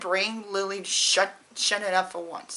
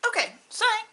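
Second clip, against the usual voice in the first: flustered, tearful apology with a breaking laugh; emotional laugh; 9 semitones higher, faster than usual. Real, not acted. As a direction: voice cracking high with a teary laugh. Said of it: "I'm usually not emotional when I hear this".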